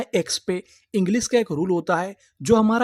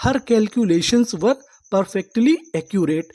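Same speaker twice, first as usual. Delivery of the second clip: "Her calculations were perfectly accurate" read very slowly, word by word; slow example sentence; much slower than usual. Shown as a demonstration. Teacher reading a model sentence to students, very slow and clear. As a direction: lay out each word slowly for beginners. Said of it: "तो हमारा sentence क्या बना?".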